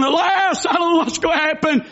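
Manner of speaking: preacher mimicking a panicked believer, anxious cry; mock panic. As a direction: act out the frightened believer, half-hammed. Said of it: "When you're going".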